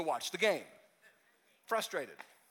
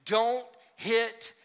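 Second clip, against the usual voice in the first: Holy Spirit warning; 5 dB louder, much slower than usual. Retold or imitated. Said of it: "the Holy Spirit is telling you".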